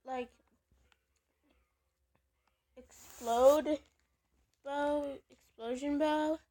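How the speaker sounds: talking while eating chips; crunching chips. Real, not acted. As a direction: mouth full of chips. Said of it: "I'm just eating chips right now".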